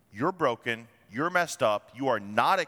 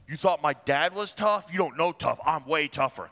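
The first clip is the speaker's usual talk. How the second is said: swaggering boast, a bit louder; paraphrased playground brag; cocky trash talk; 3 dB louder than usual. Retold or imitated. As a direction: taunt them like a new boss. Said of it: "There's some trash talk for you".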